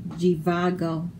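"Jivago" starting with a zh sound; Z as soft G. Shown as a demonstration. Reader showing how Z sounds in "Jivago", Z as soft G. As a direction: open "Jivago" on a soft French-style G. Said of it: "the Z sounds like a G".

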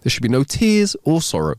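mildly concerned, pitch lifting; alarmed. Acted. Jesus to a crying old man in heaven, mildly alarmed. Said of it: "Alarmed, Jesus ran up to him".

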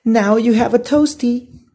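put-on high, loud cheeky little-boy voice; little brother, teasing. Little brother teases Flynn about his scorched sandwich, cheeky. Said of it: "his little brother said".

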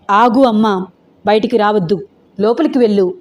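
firm, steady commands; grave voice. Acted. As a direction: daughter calmly ordering mother inside. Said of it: "గంభీరమైన స్వరంతో". (గంభీరమైన స్వరం)

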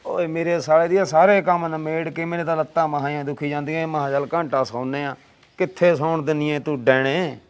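low, soft, sleepy complaint; weary grumbling. Acted. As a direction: grumble tiredly at the wife who woke you. Tired husband woken, grumbles at wife. (ਥੱਕੀ, ਉਨੀਂਦੀ ਬੁੜਬੁੜ)

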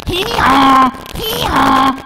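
loud pushing hee-haw; straining bray. Acted. Donkey brays as he pushes the duck out. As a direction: bray while shoving hard. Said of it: "had to go".

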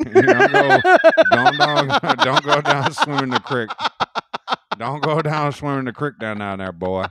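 a mocking rural Pennsylvania accent, laughing; hick accent.

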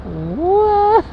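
very high, loud squeal; astonished. Real, not acted. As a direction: shriek it in disbelief. Seeing massive Uniqlo store.

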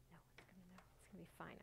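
very soft self-reassurance; hushed aside to self; muttering to herself. Real, not acted. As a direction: drop to a murmur, talking yourself through it. Reassuring herself about uneven piece.

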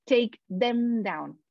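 "take them down" whispered very slowly; whispered demo. Shown as a demonstration. Teacher whispering the short pronoun version to students. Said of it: "lo hago un poco más corto".

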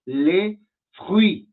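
"les fruits" very slowly, the final "s" and "t" silent; careful French. Shown as a demonstration. Teacher slowly modelling plural "les fruits" for the class. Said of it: "Entonces, como hay frutas, es".

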